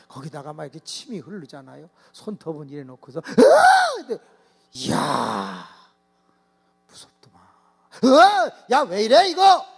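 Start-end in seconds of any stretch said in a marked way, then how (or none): 3.2-4.0 high, loud scary shriek; possessed girl shrieking at the pastor; monster shriek. Retold or imitated. 8.0-9.7 high, loud frightened yell; a pastor yelling in fright at the girl; startled yell. Retold or imitated.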